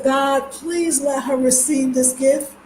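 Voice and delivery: "God, please let her receive this gift" said slowly, with "please" drawn out and rising; slow heartfelt plea, "please" stretched; earnest prayer. Shown as a demonstration. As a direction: pray it slow and sincere. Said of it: "Ooh, let's say it again".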